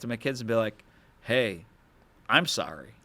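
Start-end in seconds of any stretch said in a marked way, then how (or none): 1.2-2.9 mild, earnest apology, dropping in pitch; retold sincere apology. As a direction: act out owning up to your kids. Models apologizing to his kids.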